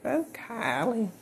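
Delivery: high, slow, drawn-out character call; Willie Gilbert. Acted. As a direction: stretch the name out in a high put-on voice. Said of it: "I'm gonna say your name like".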